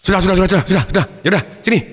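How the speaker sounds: put-on father hurriedly hushing a child; mildly flustered, embarrassed dad. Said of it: "Papanya malu".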